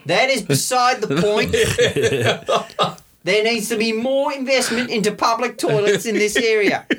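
slow, pompous official speechifying, laughing through it; mock pompous councillor. Councillor defending public toilets at a mock hearing, pompous. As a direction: play a councillor defending his own crime.

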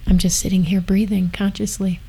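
breathy soft whisper, gently; soft gentle voice. Real, not acted. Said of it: "breathing consciously and being gentle".

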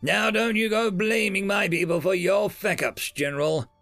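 heated, pushed-up accusing line; a touch of angry bureaucrat pushing back; mild anger at the general; livid. Acted. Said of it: "The attaché grew livid".

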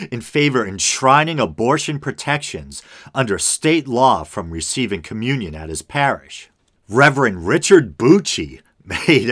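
article read aloud with lively emphasis; news read. Acted. Host reading a Newsweek story to listeners, news read. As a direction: read it out like a news item, key words lifted.

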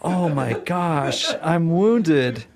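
laughing, hammed-up hurt; mock wounded laugh. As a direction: play it wounded through a laugh. Mock hurt at her teasing.

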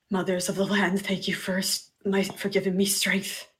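soft, hushed thanks to the earth mothers; quiet devout invocation; reverent whispered prayer. Acted. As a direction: pray under your breath. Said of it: "it's like".

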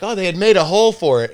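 a hammed-up wife reporting back; imitating his wife. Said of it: "she's like".

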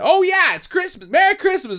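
high, sing-song mockery of movie lines; mocking quote. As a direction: toss it off with sarcastic cheer. Mocking Die Hard 2 dialogue.

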